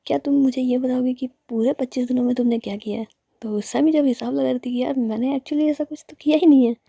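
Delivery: scolding. Acted. The speaker scolds Sammy about work.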